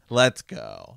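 eager rally call; excited cheer. Real, not acted. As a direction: punch it out like a hype-up. Hyped about the chapter.

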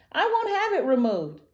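high, loud wailing protest; hammed-up high cry of refusal; mock sobbing. A narrator's reading. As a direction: wail it like a tearful little dinosaur. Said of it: "sobbed Tiny".

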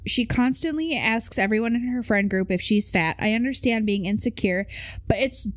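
lightly voiced teenage girl reading a post. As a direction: read it like a teen girl, lightly. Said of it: "I can't do the voice and read this".

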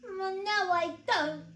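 high little voice protesting; understated storybook shriek; mild mock shriek. A narrator's reading. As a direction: protest as a small scared toy. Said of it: "shrieked the voice".

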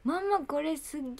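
high, loud, rough amazement; papa-style exclamation. Retold or imitated. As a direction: gush to mom, stretching the last word. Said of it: "そういう喋り方なパパのせいだって". (興奮したくだけた口調)

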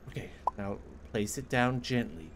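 softly whispered instruction. Real, not acted. Gamer whispering to himself while placing a plate gently. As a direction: whisper it as if not to break anything.

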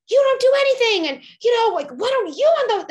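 shouting at a partner who didn't unload the dishwasher; exasperated yell. Pretend. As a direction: blow up over the dishes, way out of proportion. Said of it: "big, quote, disproportionate reaction".

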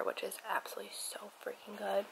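a soft, enthusiastic whisper. Real, not acted. To viewers, praising her nut butter, whispering. Eating breakfast on camera.

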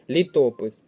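Літопис with то stressed; stress on second syllable. Shown as a demonstration. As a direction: lean on the middle vowel of Літопис. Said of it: "наголос на другий склад".

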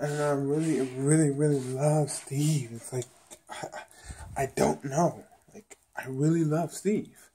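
acted pondering with pauses; contemplating. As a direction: mimic someone mulling over their feelings, drawing words out. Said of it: "So she's, like, contemplating".

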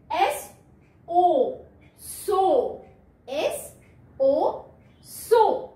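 एस then ओ, blended into सो; teacher blending letter sounds for kids; sounding out and blending. Shown as a demonstration. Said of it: "यहाँ क्या पढ़ेंगे?".

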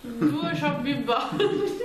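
slow and laughing through stuffed cheeks; mouth full. Real, not acted. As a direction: say it around a mouthful of marshmallows. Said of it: "C'ho già la bocca piena io".

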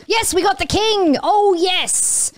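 high, thrilled victory cheer; real gleeful celebration; excited triumph. Real, not acted. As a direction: celebrate a big hit. Celebrating knocking out the king.

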